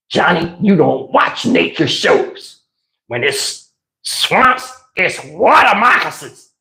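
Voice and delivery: slow, low preachy Aunt Esther scolding; Aunt Esther impression. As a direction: lean in and lecture him slowly like Aunt Esther. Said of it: "that Aunt Esther".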